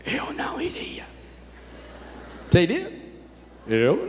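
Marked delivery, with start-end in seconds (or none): 0.0-1.1 whispered confession; hushed aside to the crowd. Real, not acted. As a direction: whisper it like a secret admission. Confessing own fear to congregation.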